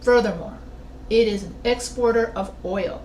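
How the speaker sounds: a pause after bananas, then FURTHERMORE, a short pause, the rest; full-stop reading. Shown as a demonstration. Teacher showing how a reader reads after a period, with separating pauses. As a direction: read "Furthermore" as a new sentence, set apart by pauses. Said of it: "Okay, pause".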